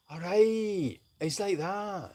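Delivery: trying out a Scottish comedian's voice; rough attempt at a Scottish comic; Billy Connolly. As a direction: work into a lilting Scottish impression. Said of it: "Please do Billy just the once".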